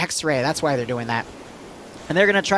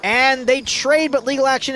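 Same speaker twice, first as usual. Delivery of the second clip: excited; 6 semitones higher than usual. Real, not acted. Live play-by-play action burst.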